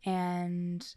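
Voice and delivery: slow, high and stretched out; drawn out slowly. Acted. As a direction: savour each word, slowly. Drawn-out list of her week.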